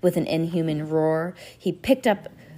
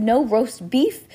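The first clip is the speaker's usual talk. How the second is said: higher, louder, slow and indignant; outraged villain; 6 semitones higher, 5 dB louder, much slower than usual. A narrator's reading. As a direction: drag out the outrage. Olaf outraged at no beef.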